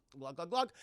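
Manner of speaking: imitated gulps from a goblet; gulping noises. Katana drinks from the goblet, imitated gulping. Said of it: "She goes".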